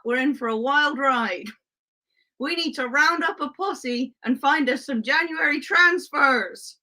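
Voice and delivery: put-on playful Wild West cowboy accent. Sheriff Fran rounding up a posse for viewers, mock cowboy accent. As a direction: put on a sheriff's Western twang. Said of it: "no, not the accent".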